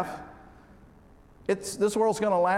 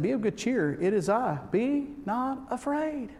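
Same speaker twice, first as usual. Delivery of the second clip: reassuring Jesus; 4 semitones higher than usual. Acted. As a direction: soothe frightened friends gently. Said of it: "he said".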